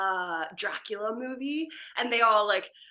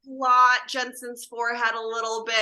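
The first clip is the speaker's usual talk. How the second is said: louder, drawn-in laughing set call; mock crew call; 6 dB louder than usual. Crew member to makeup about Jensen, playful call-out.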